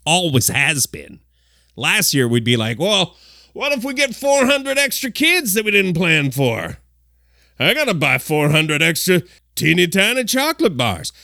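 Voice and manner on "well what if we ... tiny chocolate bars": lightly put-on flashback voice, higher at the start; a hint of a fretful past self; flashback accent. Recalling last year's Halloween candy panic, lightly put-on flashback voice. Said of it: "Yes, that is my flashback accent".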